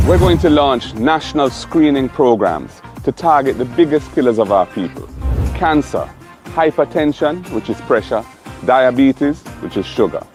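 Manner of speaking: loud, rousing campaign address; rally the crowd with fire; rally speech. Acted. Campaign speech over music.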